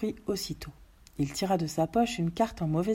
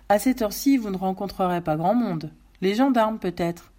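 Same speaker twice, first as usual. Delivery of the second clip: tag pompiste jovial; 3 semitones higher, 6 dB louder than usual. Acted.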